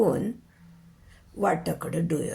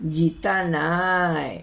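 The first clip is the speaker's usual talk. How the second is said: very slow, drawn-out pronouncement; raised-voice repeat; 2 semitones lower, much slower than usual. Acted. Novice doctor repeating the verdict to the crowd, drawn-out declaration. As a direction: stretch the verdict out solemnly. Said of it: "उंच स्वरात पुन्हा म्हटलं".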